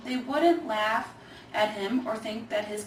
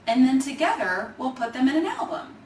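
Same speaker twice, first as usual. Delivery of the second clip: laughing; 4 semitones higher, 7 dB louder than usual. A narrator's reading. Kate pitches scrapbook idea to Grandpa.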